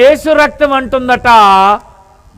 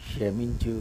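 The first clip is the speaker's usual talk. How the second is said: a much softer, lower breathed plea; 11 semitones lower, 17 dB quieter than usual. Pretend. Blood whispering to believer, very soft plea. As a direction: hush it almost to nothing.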